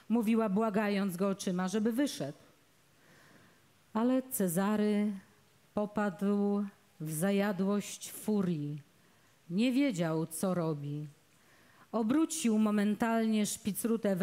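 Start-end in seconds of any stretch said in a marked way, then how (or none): none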